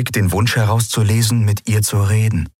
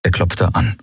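ordinary delivery, nothing marked

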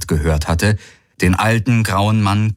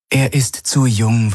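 gentler; 5 semitones higher than usual. Acted. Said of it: "nun bedeutend sanfter".

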